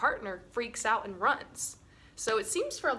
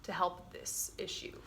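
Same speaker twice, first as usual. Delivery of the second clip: calm confrontation demo; 4 dB quieter than usual. Shown as a demonstration. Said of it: "and then I'll be like".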